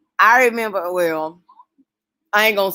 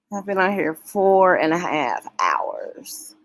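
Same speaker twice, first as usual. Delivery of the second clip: hushed, slower whisper of disbelief; 3 dB quieter, slower than usual. Real, not acted. Streamer whispering to chat about four and a half hours. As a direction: breathe it out in amazed disbelief. Surprised at long stream time.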